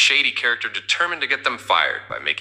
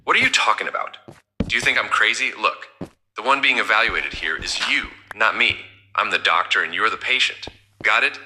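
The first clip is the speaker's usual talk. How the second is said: irritated. Acted. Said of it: "getting irritated".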